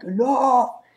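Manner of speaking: high, loud mock outburst; hammed-up angry yell; pissed-off Cyclops. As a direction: cry out as a fed-up character. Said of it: "And Cyclops is pissed".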